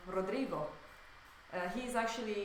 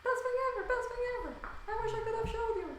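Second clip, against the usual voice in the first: excited; 14 semitones higher, much faster than usual. Real, not acted. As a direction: gush about it breathlessly. Raving about new medium.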